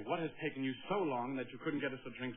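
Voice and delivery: flustering customer in an English accent; put-on English accent. Shown as a demonstration. Date demonstrating how to fluster the waitress, in put-on English accent. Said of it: "in this accent to give her a hard time".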